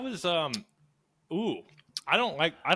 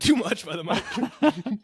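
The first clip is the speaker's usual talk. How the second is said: laughing; 4 semitones higher, much slower than usual. Real, not acted. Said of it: "my gagging".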